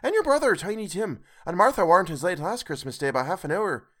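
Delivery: a bustling mother asking after her husband; Mrs Cratchit voiced. A narrator's reading. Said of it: "said Missus Cratchit".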